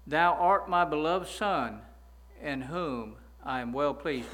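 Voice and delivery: slow, loud reverent recital of the verse; solemn proclamation. Retold or imitated. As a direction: proclaim each word slowly and loudly from heaven. Proclaims the phrase he examines.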